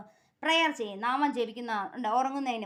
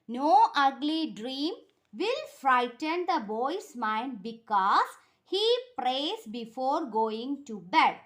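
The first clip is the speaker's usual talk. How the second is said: very slow, word by word for pupils; teacher dictating to a class; slow dictation; much slower than usual. Shown as a demonstration. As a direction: spell the answer out slowly so they can write. Teacher reads answer slowly.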